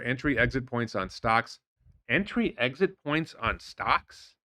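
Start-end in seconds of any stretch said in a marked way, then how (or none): 2.1-4.3 slow, questioning repeat with a rising end; sceptical echo. Real, not acted. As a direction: draw it out as a doubting question. Repeats post's words as sceptical question.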